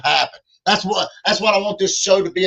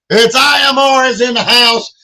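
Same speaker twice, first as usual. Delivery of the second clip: hype shout; 4 semitones higher, 6 dB louder than usual. Real, not acted. Hyping a viewer's comment.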